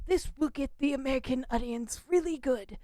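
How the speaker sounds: hushed urgent shouting voice; whisper yelling. Retold or imitated. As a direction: shout under your breath with urgency. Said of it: "why are you whisper shouting in this meeting".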